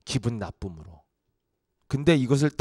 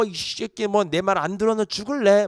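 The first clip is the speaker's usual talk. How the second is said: Yanbian dialect; 4 semitones higher than usual. Retold or imitated. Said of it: "연변 사투리".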